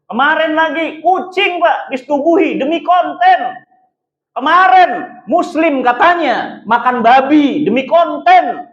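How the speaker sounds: rising indignation to the last word; outraged. Real, not acted. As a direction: hammer the outrage home. Outraged list of content stunts.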